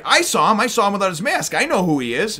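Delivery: excited Luffy. Retold or imitated. Luffy excitedly reveals the masked man.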